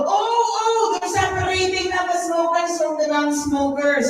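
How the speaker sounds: high-pitched dawning realisation, acted; sudden realisation. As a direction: play a sudden discovery, voice up high. Acts sudden naive realisation.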